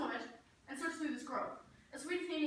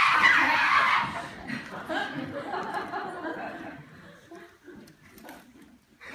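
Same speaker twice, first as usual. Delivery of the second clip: loud booming laugh; 6 semitones higher, 13 dB louder than usual. Acted. Bottom laughs at his own idea.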